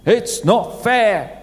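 put-on slow, sulky toddler whine on "fair"; childish whine. Adult acting like a toddler complaining life is unfair, mock whine. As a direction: whine like a two-year-old. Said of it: "like it was when you were two and three years old".

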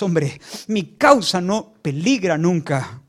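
lightly voiced God, solemn and emphatic; God to Elías. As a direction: declare it firmly, stretching key words. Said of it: "Dios a Elías".

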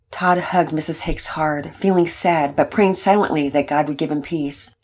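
calm, even reading voice; story narration. A narrator's reading. Narrator telling the family story, calm storyteller voice. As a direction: read it like a gentle storyteller.

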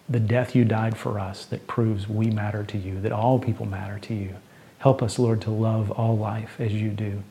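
prayer. Acted. Pastor leads closing prayer.

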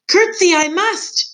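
high, slow shout of a curtsy; slow, high, loud declaration. Acted. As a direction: bellow it out, eager to please. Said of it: "shouted Meg".

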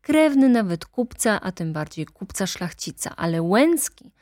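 heated attorney denouncing the nobles; ranting lawyer. Acted. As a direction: lash out at the aristocracy. Lawyer presses his point.

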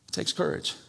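soft whispered repeat; whispered emphasis. Real, not acted. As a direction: drop to a whisper for weight. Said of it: "standing firm takes courage".

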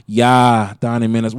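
mock Minnesota accent with a loud, drawn "Yeah"; exaggerated Minnesota accent. Local mocking how movies make Minnesotans talk, heavy Minnesota accent. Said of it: "they make our accents extra heavy".

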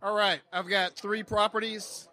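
barely audible pitch, far from the mic; soft, away from the microphone; too quiet. Real, not acted. Seller starts pitch too softly, away from mic. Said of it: "Closer to the mic, louder".

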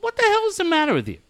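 high, rapid mock scolding; imitated yelling. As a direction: rush out an exasperated retold telling-off. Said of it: "don't need the other one yelling at you".

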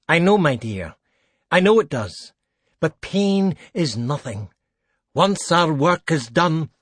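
falsely tender, coaxing the victim; oily necromancer cleric. Acted. Craven soothing his captive.

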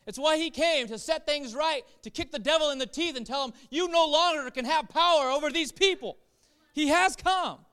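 high, loud triumphant preaching; preacher proclaiming Jesus defeats the devil; triumphant proclamation. Real, not acted. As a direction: declare it like a victory shout. Preacher proclaims victory over devil.

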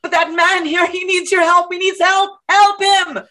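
high, urgent, repetitive pleading; heated, disrespectful tone. Acted. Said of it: "You need to watch your tone".

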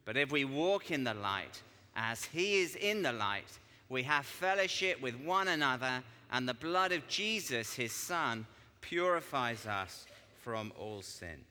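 measured, emphatic Bible reading; deliberate public reading, phrase by phrase; scripture reading. Acted. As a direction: read it out to the congregation with weight, slowing to the close. Reads scripture aloud.

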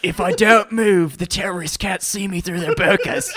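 light mock-Australian accent. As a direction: put on a joking Aussie accent. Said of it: "When the fuck did I become Australian".

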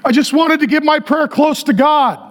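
high-pitched put-on weepy voice; mock emotional. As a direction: mimic a tearful pilgrim. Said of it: "They were very emotional".

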